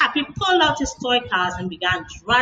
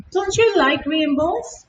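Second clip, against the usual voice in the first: put-on little girl voice; 6 semitones higher, slower than usual. A narrator's reading. Child voice asking mommy.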